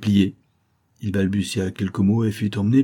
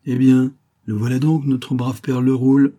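hearty, higher and louder greeting; benevolent; 5 semitones higher, 6 dB louder than usual. A narrator's reading. Boss greeting his old worker, benevolent and hearty. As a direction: welcome him with kindly heartiness. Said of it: "la voix qui l'interpella fut bienveillante".

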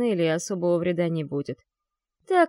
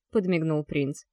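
plain reading voice

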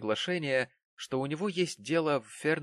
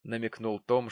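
plain reading voice

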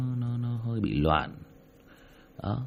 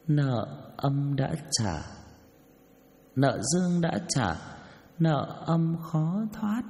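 new demon voice; 4 semitones higher, much slower than usual. Shown as a demonstration. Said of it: "Ví dụ như này".

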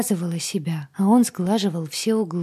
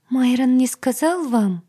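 high, louder squeak; 6 semitones higher, 5 dB louder than usual. Acted. Agata to heroine, high timid squeak. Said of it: "пропищала Агата".

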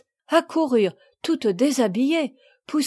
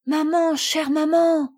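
high, pleading cry to mother; emotional child's exclamation; 5 semitones higher, slower than usual. Acted. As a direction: call out to maman, pitched up. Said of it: "s'écria Marguerite".

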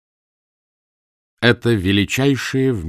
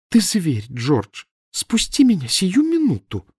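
angry demand; 10 semitones higher, slower than usual. A narrator's reading. Wife stuck on column demands.

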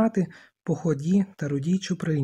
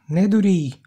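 резкий громкий окрик сверху; крикни, чтобы одёрнуть; 6 dB louder than usual. A narrator's reading. Ральф кричить на Роджера.

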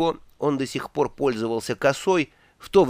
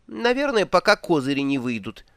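высокий голос туриста; 3 semitones higher than usual. Acted. Два Цветок отвечает.

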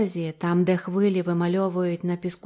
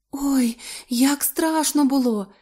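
frightened whisper; 6 semitones higher, slower than usual. Acted. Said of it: "прошепотіла вона".

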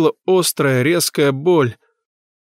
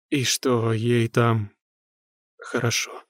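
softer, slow, fading to breath; faint strained whisper; 3 semitones lower, 6 dB quieter, slower than usual. A narrator's reading. Medium whispering a lie to the mother. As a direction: barely get the words out.

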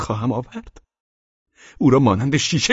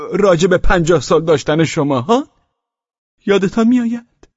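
offensive tone; 3 semitones higher, 3 dB louder than usual. Acted.

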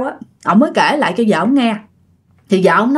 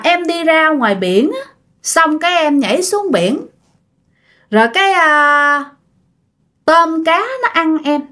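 halting, eerie voice of the dead; creepy ghost woman; 4 semitones higher than usual. Acted. Drowned woman telling neighbour of her death, eerie ghost voice. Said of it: "Tôi thấy rõ ràng cái hình ảnh rất là ghê".

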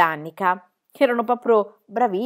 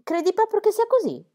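thoughtful; 12 semitones higher, 3 dB louder than usual. A narrator's reading.

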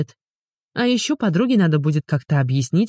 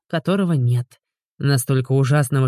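ordinary delivery, nothing marked

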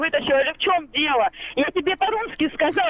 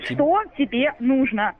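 slow, insistent demand; 3 semitones lower, slower than usual. Real, not acted. Repeats the demand word by word.

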